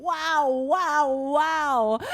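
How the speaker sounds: put-on high, wondering kid voice on "Wow, wow, wow."; toddler's wows. Mom imitating son wandering the house, high childlike wows. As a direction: chant it like a small boy exploring the house. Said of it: "he would walk around the house going".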